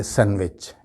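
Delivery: "सैंडविच" as san-vech; "सैंडविच" with silent d; correct pronunciation. Shown as a demonstration. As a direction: drop the d in "सैंडविच". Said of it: "डी की आवाज़ अलग से बिल्कुल नहीं".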